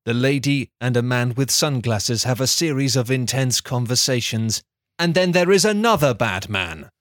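measured, deadpan storyteller read; deliberate storybook delivery; story narration. A narrator's reading. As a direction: narrate a silly recap like a serious tale. Script narration.

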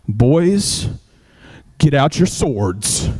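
low, slow call to arms; rally your men for a fight; lightly voiced war leader; commanding warrior. Angry David orders his men.

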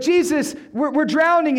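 high, acted cry for help; mock panic. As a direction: imitate a panicking disciple pleading. Disciples run to Jesus in panic.

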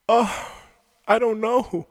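high, playful mock voice; mock dodge. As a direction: shrug it off in a put-on high voice. Mock voice of evasive player.

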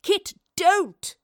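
high, loud desperate plea; urgent pleading. A narrator's reading. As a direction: cry out to stop a friend. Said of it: "the Professor pleaded".

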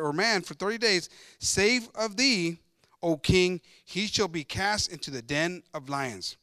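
slow, measured Bible reading aloud; deliberate pulpit reading; scripture reading. Acted. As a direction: read the verse out formally, phrase by phrase.

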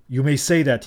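ordinary delivery, nothing marked

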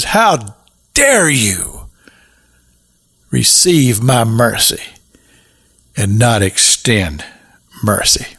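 master rebuking the unforgiving servant in a whisper; angry master. Retold or imitated. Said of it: "he was wroth and he was angry".

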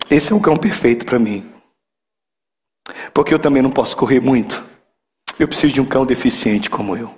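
fala terna, mais grave e pausada; resposta terna do garotinho. Acted. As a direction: leve interpretação de um garoto sincero, em tom baixo. (terno e sincero, em voz grave)

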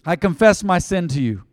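earnest prayer for the congregation to repeat. Acted. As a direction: lead the prayer line by line.

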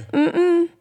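startled high no no no; mock outraged protest. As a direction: squeal it out in disbelief. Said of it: "I'm like".

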